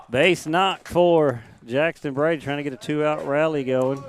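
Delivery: excited call. Real, not acted. Play-by-play hit called out.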